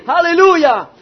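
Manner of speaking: loud preacher's call; rally the congregation with a shout of praise; ringing call, falling at the end; exclaimed hallelujah. Real, not acted.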